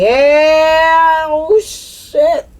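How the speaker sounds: sudden high startled yelp of realization. Real, not acted. Reading the cards, startled by what appears, high yelp. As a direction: catch it suddenly, pitch jumping up.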